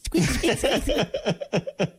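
high squeaky mouse voice; mouse squeaks. Pretend. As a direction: squeak like a tiny mouse to lure the cat. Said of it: "I'm a little mouse".

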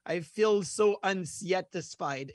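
put-on light Russian accent, slow; imitating a Russian poker player. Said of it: "in Russian accent".

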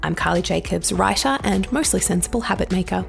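husky voice from pollen; hay fever husky throat; sultry narrator. Real, not acted. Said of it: "Please excuse my rather sultry voice this week".

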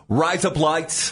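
slow Australian-sounding trick phrase; mock Australian accent. Shown as a demonstration. Enjoying the trick phrase, mock Australian accent. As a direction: say it slowly for the fun of Australian sound. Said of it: "it's fun to say".

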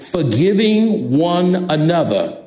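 "Forgiving one another" slowed down, word by word; underlined emphasis. Real, not acted. Preacher underlining a verse for the congregation, slow emphasis. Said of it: "There it is, underline it".

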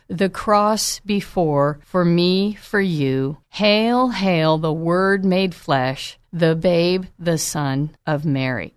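a gentle, reverent hymn reading; slow poetic recital. Shown as a demonstration. Preacher reading a carol to the congregation, slow and tender. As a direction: read the carol verses slowly, savoring each phrase. Reads carol lyrics slowly.

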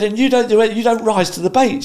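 high, loud imitation of an annoyed wife; hammed-up high-pitched complaint; retold exasperation. Wife scolding husband for not arguing, exasperated. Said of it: "It's really annoying when you do that".

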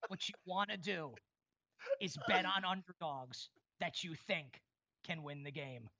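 hammed-up imitation of a big reveal; mock grand announcement. Teasing a cohost by imitating his betting tip, mock grand announcement. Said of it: "He was like".

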